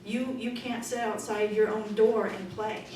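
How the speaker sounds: ordinary talk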